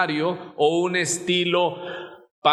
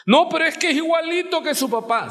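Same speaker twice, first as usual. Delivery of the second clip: high, fast mock protest; objecting churchgoer; 10 semitones higher, faster than usual. Preacher mimics a doubter in the pews, fast high protest. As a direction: toss out the excuse as a skeptic would.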